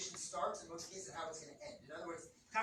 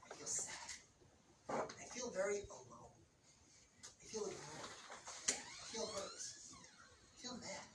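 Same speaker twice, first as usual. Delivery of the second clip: soft feeling statements; 8 dB quieter than usual. Shown as a demonstration. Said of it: "And you fill in the emotion".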